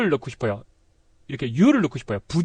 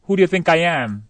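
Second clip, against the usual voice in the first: one fluent question at normal speed; linked-up, conversational delivery; natural connected version; much slower than usual. Shown as a demonstration. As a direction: run WHO DO YOU THINK I AM together. Same sentence run together.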